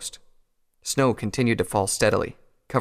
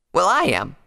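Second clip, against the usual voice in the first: louder, higher defiant retort; 9 semitones higher, 5 dB louder than usual. A narrator's reading. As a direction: stand your ground with raised voice. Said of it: "she said defiantly".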